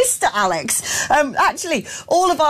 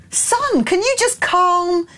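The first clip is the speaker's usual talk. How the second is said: exasperated scolding; 5 semitones higher, slower than usual. Retold or imitated. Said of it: "I'm like".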